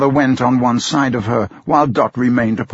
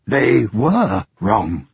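slow grave echo; much slower than usual. Acted. Caleb answering for Dot, slow and solemn. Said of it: "Caleb answered for her".

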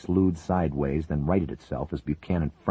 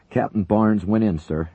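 higher, loud call over the noise; shouted; 5 semitones higher, 6 dB louder than usual. Acted. Lincoln shouting into the intercom to the captain, loud call. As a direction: shout the bad news. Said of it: "Lincoln shouted into the intercom".

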